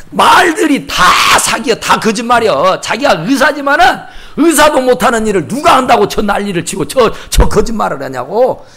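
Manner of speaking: mildly heated mock denunciation; accusing rant. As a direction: imitate an indignant sceptic railing at a preacher. 남편이 목사를 사기라고 비난. (사기라고 몰아붙이는 남편 흉내)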